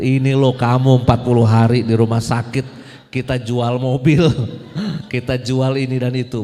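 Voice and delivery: wife scolding her husband over the bills, loud and angry. Retold or imitated. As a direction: shout it like an angry wife waving hospital bills. Angry wife voiced in story.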